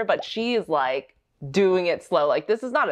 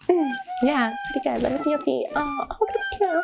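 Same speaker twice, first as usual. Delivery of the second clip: higher, snooty catty dancer voice; 10 semitones higher than usual. Retold or imitated. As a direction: play the condescending rival sizing someone up. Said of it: "I can't do catty things very well".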